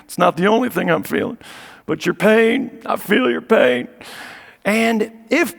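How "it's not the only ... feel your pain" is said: a hint of breathy Southern empathy; lightly voiced Clinton feeling your pain; Bill Clinton impression. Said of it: "you had Bill Clinton".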